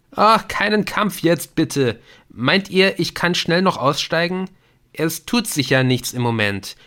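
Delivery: high, loud, exasperated moaning; suffering complaint. A narrator's reading. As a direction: protest at being stuck in the game. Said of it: "litt Viktor wie ein Tier". (gequältes, genervtes Jammern)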